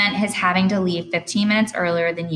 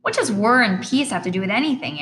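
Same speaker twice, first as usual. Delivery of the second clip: annoyed; 5 semitones higher than usual. Acted. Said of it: "clearly annoyed".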